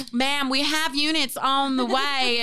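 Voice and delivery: slow, lightly Southern dispatcher voice; unhurried Southern operator, imitated. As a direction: recite it slowly with a hint of Southern. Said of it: "in my mind she was Southern".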